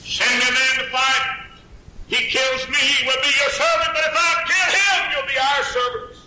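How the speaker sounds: Goliath's terms. Acted. Goliath taunting Israel's soldiers, high proclaiming voice. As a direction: taunt the army across the valley.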